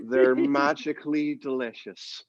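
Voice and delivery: very slow, poetic mock Irish leprechaun; languid Irish accent. Shown as a demonstration. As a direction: drawl it like a doped-up Irish leprechaun. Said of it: "languid, poetic Irish accent".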